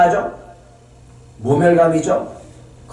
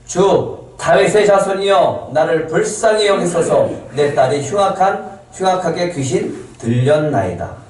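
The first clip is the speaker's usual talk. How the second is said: measured, slightly raised plea, easing at the end; mild retold cry; 3 semitones higher than usual. Canaanite woman cries to the Lord for her possessed daughter, mild retold cry. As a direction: imitate a mother calling out in desperate appeal. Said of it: "소리를 질러".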